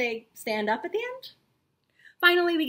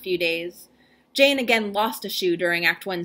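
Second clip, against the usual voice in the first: mock-grave reading of dry backstage notes; hammed-up solemn reading of performance notes; dramatic reading; 2 semitones lower than usual. Shown as a demonstration. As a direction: read the report like an epic tale, lingering on each heading. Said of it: "I'm going to do a dramatic reading".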